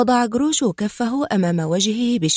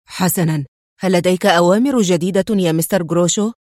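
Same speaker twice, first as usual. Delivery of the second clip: nervous; 4 dB louder than usual. Acted. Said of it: "بعصبية".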